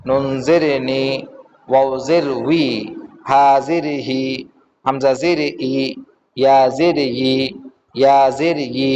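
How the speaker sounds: measured sing-song spelling drill, last vowel held; recitation drill. Shown as a demonstration. Teacher reciting Arabic letters for learners, sing-song recitation drill. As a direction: chant each letter, then stretch the syllable.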